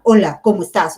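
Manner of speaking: loud, clipped Hitler-style greeting; harsh German-like voice. Shown as a demonstration. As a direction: bark the greeting like a stern German. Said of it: "Como alemán". (saludo duro imitando a un alemán)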